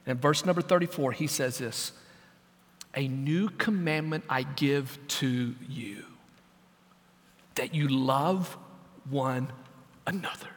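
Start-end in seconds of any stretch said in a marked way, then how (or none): 2.9-10.5 slow, low, hushed commandment with long pauses; low, reverent quoting of Jesus; solemn hush. Acted. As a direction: give it slowly and softly, letting each phrase settle. Jesus gives commandment in hushed room.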